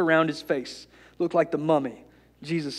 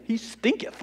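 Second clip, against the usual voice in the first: high, softer mock-pious quote; mock holy; 6 semitones higher, 6 dB quieter than usual. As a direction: lift it high with mock holiness. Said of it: "Everything's a little holier when you say".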